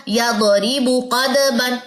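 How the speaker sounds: "क़दबन" given a jolt; wrong reading. Shown as a demonstration. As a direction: demonstrate the faulty version. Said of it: "ये गलत हो जाएगी चीज".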